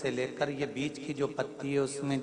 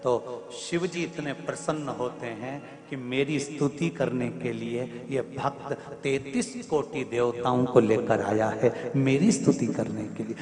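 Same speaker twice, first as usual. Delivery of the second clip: ordinary delivery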